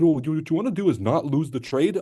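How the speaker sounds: mock a viewer's obvious trading advice, sing-song; mocking quote. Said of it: "He said".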